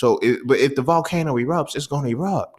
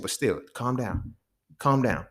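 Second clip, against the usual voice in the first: soft calming; 5 dB quieter, slower than usual. Retold or imitated. Homegirl calming him in class.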